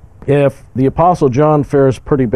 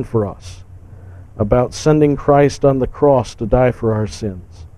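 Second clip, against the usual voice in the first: calm, earnest prayer to the Father; closing prayer. Acted. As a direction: pray steadily, thanking for the words. Closes the sermon in prayer.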